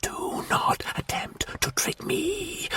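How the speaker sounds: slow, rasping whisper; rasped. A narrator's reading. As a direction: rasp the warning. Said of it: "rasped the Martian".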